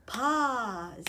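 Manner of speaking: "Positively" in four separate beats, pos, i, tive, ly; split into syllables. Shown as a demonstration. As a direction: sound out "Positively" part by part. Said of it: "you count the parts".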